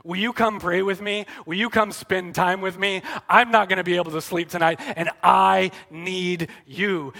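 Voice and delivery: mildly pleading, gentle invitation; a gentle appeal, drawing out the last words; gently needy. Retold or imitated. Jesus asking his friends along on a sleepless night, gently needy. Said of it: "gently and needily says".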